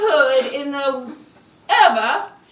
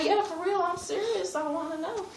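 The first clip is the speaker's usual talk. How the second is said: earnest softly; 5 semitones higher, 10 dB quieter than usual. Retold or imitated. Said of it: "She said".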